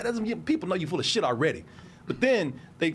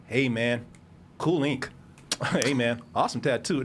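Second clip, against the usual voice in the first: salesman flattery; 6 semitones lower than usual. Retold or imitated. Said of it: "the first thing they do is they go".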